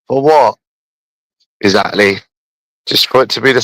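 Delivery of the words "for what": scoffing. Real, not acted. Scoffing rhetorical question.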